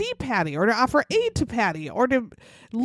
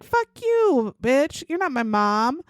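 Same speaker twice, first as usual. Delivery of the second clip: much higher, mock bratty outburst; teen snapping back; 3 semitones higher than usual. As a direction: fling it like an angry teen. Teen yelling at the stepmother.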